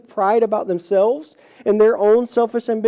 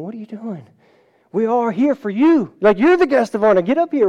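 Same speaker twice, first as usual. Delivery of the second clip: eager urging; 3 semitones higher, 4 dB louder than usual. Retold or imitated. People urging guest forward.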